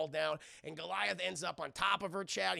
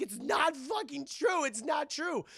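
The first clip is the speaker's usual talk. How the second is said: mock denial; 9 semitones higher, 3 dB louder, slower than usual. Female gargoyle denies accusation.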